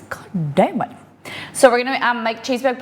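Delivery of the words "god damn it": under-the-breath unvoiced swear; whispered curse. Real, not acted. Streamer muttering a whispered curse mid thank-you. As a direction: mutter it to yourself, off mic.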